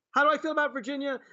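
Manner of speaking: stunned echo of the host's question; incredulous. Real, not acted. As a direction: repeat the question in disbelief.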